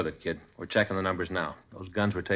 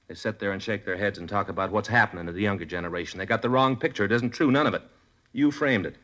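rising anger. Acted. Detective lecturing the teen killer, rising anger. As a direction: let the anger climb to the accusation.

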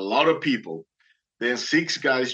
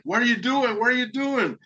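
much higher-pitched mock scream, little added volume; imitated screaming; 12 semitones higher than usual. Boatman to exhausted swimmer, imitated screaming. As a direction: retell his alarmed scream in a high voice. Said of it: "starts screaming at me".

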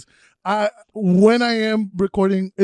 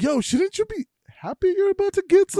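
retold teasing; 11 semitones higher, 3 dB quieter than usual. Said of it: "And I was like".

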